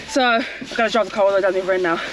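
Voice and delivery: breathless after a run; out of breath. Real, not acted. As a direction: talk between quick breaths. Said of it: "so I'm out of breath".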